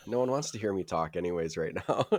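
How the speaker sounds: hoarse, raspy sick voice. Real, not acted. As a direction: talk through a sore, raspy throat. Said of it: "Your, your deep, raspy, sick voice".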